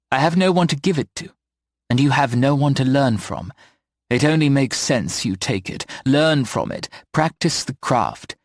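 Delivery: lightly voiced kindly older witch, tender; a gentle, motherly village witch; a kindly witch pressing a gift on the boy; Eleanor's voice.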